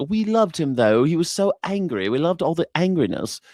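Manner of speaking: mock adoring Republican. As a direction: gush like a smitten fan, hammed up. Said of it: "all the Republicans are like".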